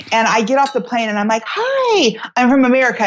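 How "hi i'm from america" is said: high-pitched, put-on hello; retold impatient traveler's greeting; cranky greeting. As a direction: announce yourself as a cranky, jet-lagged traveler. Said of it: "And so I was cranky".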